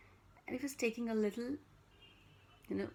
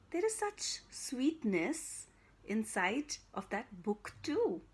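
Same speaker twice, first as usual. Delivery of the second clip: thoughtful; slower than usual. Acted. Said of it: "he said thoughtfully".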